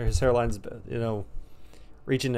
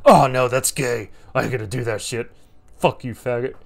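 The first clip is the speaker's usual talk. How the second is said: mock outraged refusal; 7 dB louder than usual. Friend refusing the boss's demand, mock outrage. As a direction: imitate an offended buddy refusing loudly.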